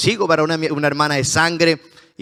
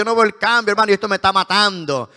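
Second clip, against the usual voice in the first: higher and quicker, pleading addict; desperate addict; 5 semitones higher, faster than usual. Retold or imitated. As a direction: beg like a man at the end of his rope. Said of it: "decía el drogadicto".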